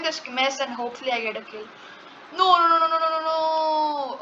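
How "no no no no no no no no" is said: panicked no. Real, not acted. Bed about to be lost.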